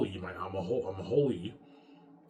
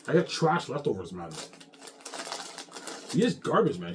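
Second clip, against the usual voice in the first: angry shout; 4 semitones higher, 4 dB louder than usual. Real, not acted. Ranting at enemies, shouting.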